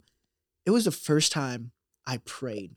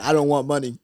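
laughing through a loud quote; laughing mock quote; 6 dB louder than usual. Laughing while retelling the farmer's line. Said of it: "He said".

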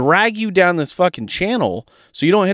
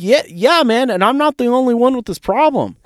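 much higher and louder, all fired up; excited retold reply; 9 semitones higher, 3 dB louder than usual. Cheering on the kid he coached, loud and fired up. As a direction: hype the kid up, almost shouting.

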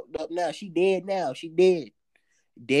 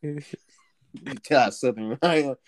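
laughing; 6 semitones lower, 4 dB louder, much slower than usual. Real, not acted. Laughing while talking.

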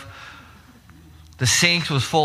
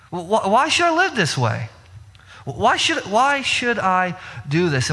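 whiny protest; 5 semitones higher than usual. Retold or imitated. Voicing believers who refuse to serve.

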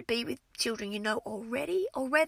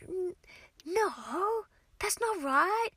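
put-on protesting kids; 8 semitones higher than usual. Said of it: "they're always sort of".

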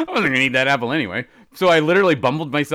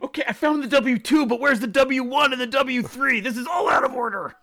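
higher, exasperated rant; mock flustered; 12 semitones higher than usual. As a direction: huff through the papers in mock frustration.

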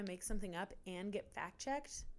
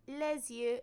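imitating child self; 4 semitones higher than usual. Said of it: "I'd go".

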